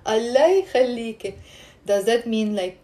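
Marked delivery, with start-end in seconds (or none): 0.0-1.3 mild plea, broken into separate words; pleading intonation. Shown as a demonstration. Teacher showing how we say it, mild pleading. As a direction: lean on Allah as if asking a favour. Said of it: "the difference in the intonation".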